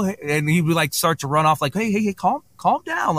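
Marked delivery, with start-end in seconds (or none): 1.7-3.2 high-pitched retold plea to settle; urgent calming interjection. Teller stopping the excited guy from running off, urgently. Retelling how he slowed the guy.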